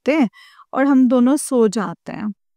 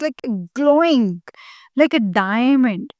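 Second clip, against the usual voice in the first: drawn out very slowly, in wonder; slow and awed; much slower than usual. Real, not acted. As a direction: let each word linger, amazed. Awed description of Guruji's glow. (धीमे, अचंभे से खींचकर)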